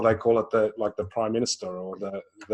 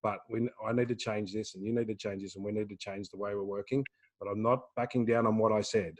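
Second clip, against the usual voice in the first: much softer, calm and reassuring; gentle at eye level; 2 semitones lower, 8 dB quieter than usual. Retold or imitated. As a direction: kneel down and explain it kindly, not harsh. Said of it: "get down onto their eye level and say it".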